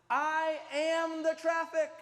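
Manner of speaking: loud and drawn out, high; emphatic slow shout. Acted. Preacher booming his favorite wisdom to the congregation, slow shout. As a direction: land the punchline big and slow.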